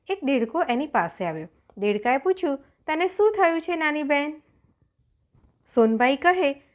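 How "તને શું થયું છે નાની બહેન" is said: higher-pitched, lightly voiced kindly frog; concerned frog. A narrator's reading. Frog asks the crying little sister what happened, lightly voiced concern. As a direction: ask with raised pitch, gently concerned.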